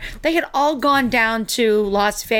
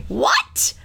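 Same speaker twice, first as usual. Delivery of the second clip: high, rising shocked what; 14 semitones higher than usual. Retold or imitated. Learning the Good Doctor actor's real accent, shocked. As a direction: jump way up in pitch, stunned. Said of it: "And I was like this".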